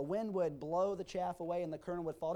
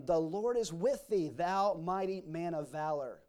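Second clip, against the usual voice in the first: slow, measured blessing; solemn proclamation; 6 dB louder than usual. Acted. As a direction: bestow it like a blessing, slowing on the end. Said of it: "said unto him".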